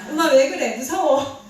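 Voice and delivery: mock scared child. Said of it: "이렇게 할 수 있겠죠".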